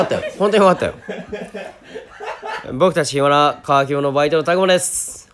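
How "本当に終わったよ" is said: excited shout. Real, not acted. 終わった喜びを叫ぶ.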